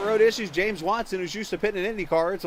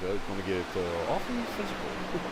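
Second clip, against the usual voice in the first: imitating the Waterboy coach; 9 semitones lower, 6 dB quieter than usual. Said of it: "as, uh, the coach in Waterboy, I forget his name, once said".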